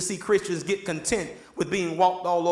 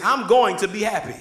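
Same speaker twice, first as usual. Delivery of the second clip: louder, emphatic declaration; like you mean it; 5 dB louder than usual. Shown as a demonstration. Preacher leading the congregation to say it, like you mean it. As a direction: say it with full conviction. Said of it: "let's say it like you mean it".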